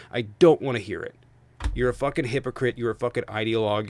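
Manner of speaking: angry. Real, not acted. Angry rant continues.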